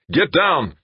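high loud shouted command; urgent shout. Acted. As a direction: bark it over gunfire. Agent yelling amid shooting.

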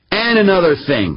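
called high across the room; calling out. A narrator's reading. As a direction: call out from the shower. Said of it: "he called from the shower".

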